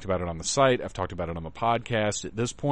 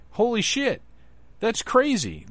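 excited; 12 semitones higher, slower than usual. Real, not acted. Hyping his own convention prizes.

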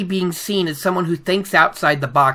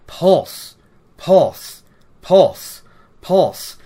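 rhythmic pulse; much slower than usual. Shown as a demonstration. Describing the flashing stone, beat by beat. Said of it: "The stone starts flashing with light".

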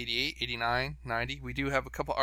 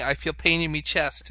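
hammed-up Cockney, a touch louder; Cockney translator voice, playful; mock Cockney; 3 semitones higher, 5 dB louder than usual. Reading Uncle Fred's translation in mock Cockney. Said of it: "Go on, Fred".

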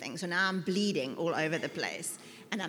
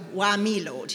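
much louder, exasperated cry to God; loud complaint; 2 semitones higher, 10 dB louder than usual. Retold or imitated. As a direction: throw the complaint up loudly at heaven. Repeats complaint, now much louder.

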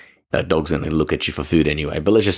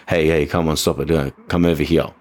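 dull, unengaged calling in a normal register; unanimated dog command. Shown as a demonstration. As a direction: call the dog without any animation. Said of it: "be animated, be something that your dog is engaged by rather than".

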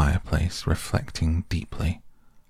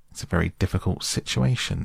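thoughtful; faster than usual. Acted. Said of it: "reflecting deeply".

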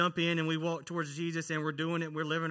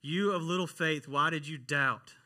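emphatic rebuke; 2 semitones higher, 5 dB louder than usual. Retold or imitated. Preacher repeats Jesus' rebuke to the congregation, emphatically. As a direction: drive the rebuke home, slowing at the end.

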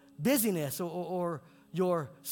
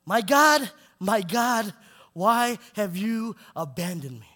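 raised, calling translation that sinks by the end; loud cry; 3 semitones higher, 8 dB louder, slower than usual. Retold or imitated. Preacher voicing Jesus' cry to God, raised then fading. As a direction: call it out, then let the question drop. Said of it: "called out with a loud voice".

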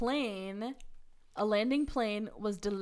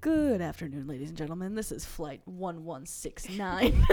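pilot announcement voice; 4 semitones lower, 4 dB louder than usual. Pretend. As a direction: play the captain on the intercom. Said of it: "Do it again".

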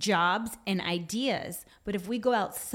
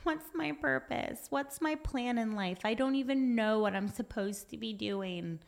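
whiny; 4 dB quieter than usual. Acted. Speaker mimics us praying when overwhelmed, whiny. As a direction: moan it like a put-on self-pitying complainer. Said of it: "we get all whiny".

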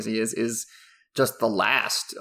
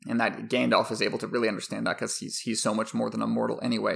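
ordinary talk, nothing marked

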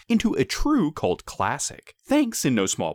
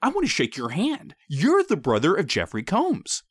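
starts high, eager fan gush; too excited blurt; 5 semitones higher than usual. Retold or imitated. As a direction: blurt it out starstruck. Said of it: "I perhaps too excitedly blurted out".

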